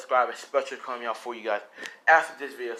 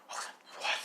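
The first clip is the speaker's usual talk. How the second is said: whispered what; 8 dB quieter than usual. Acted. Character reacts in shock.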